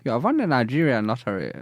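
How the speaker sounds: lightly put-on Nigerian accent; a mock Nigerian scam caller; Nigerian scammer accent. Telling caller of lottery win, mock Nigerian accent. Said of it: "You sound like a phone jacker".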